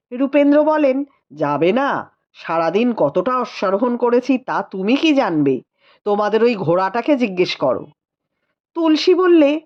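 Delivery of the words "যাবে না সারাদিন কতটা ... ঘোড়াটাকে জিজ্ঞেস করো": a touch lower, weary and teasing; tired rider brushing off questions; lightly voiced tired husband. A narrator's reading. Rupendra answering the sister-in-law, mildly weary.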